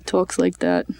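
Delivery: put-on low heavy Brooklyn accent. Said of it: "heavy Brooklyn accent".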